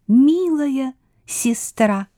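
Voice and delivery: high, bright queen mouse. A narrator's reading.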